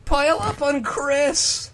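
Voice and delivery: loud, high rowdy call. Acted. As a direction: yell it like rowdy brothers piling on. Brothers voiced calling out.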